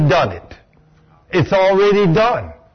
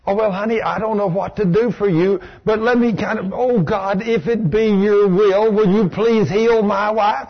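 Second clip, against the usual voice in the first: a hint of meek pleading; timid prayer; 3 semitones higher than usual. Husband timidly praying for his wife, meek. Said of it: "here's what we normally do".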